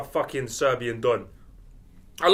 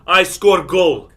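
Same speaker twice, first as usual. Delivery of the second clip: slow deadpan footballer; 2 semitones higher, 12 dB louder, much slower than usual. Retold or imitated. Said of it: "He said".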